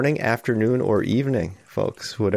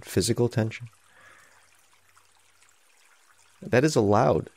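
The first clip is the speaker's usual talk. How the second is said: unhurried, reflective meditation guidance with long pauses; guided meditation. Real, not acted. Meditation teacher easing listeners into sitting with their tension, calm guidance. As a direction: gently guide sitters to notice, leaving space between phrases.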